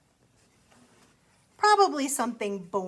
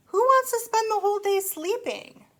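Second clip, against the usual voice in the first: much higher and louder, mock outraged; scoffing frog; 10 semitones higher, 7 dB louder than usual. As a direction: toss it off as a silly idea. Frog scoffs at Owl's idea.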